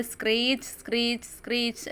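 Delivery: parrot cry. Shown as a demonstration. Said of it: "parrot കരയുന്ന ശബ്ദമാണ്".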